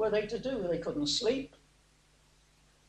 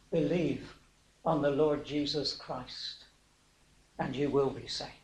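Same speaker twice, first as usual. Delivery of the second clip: low, hushed, measured answer; retold gently, well under usual volume; quiet solemn assurance; 5 semitones lower, 6 dB quieter than usual. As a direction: give the promise softly and low. Preacher voices Paul's answer to jailer.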